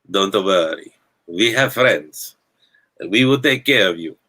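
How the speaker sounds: put-on a half-hearted Italian mafia accent that still slips toward Bulgarian. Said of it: "That still sounded Bulgarian".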